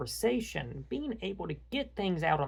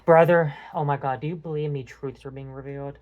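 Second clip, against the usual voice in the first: dramatic pleading; 7 dB louder than usual. Real, not acted. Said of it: "I know it sounds dramatic".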